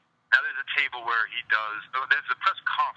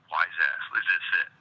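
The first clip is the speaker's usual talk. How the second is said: annoyed; 4 semitones lower than usual. Retold or imitated. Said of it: "so annoyed".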